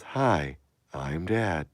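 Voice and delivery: lightly robotic greeting; a hint of a friendly robot; mild robot voice; Dad character. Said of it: "He just talks like a robot".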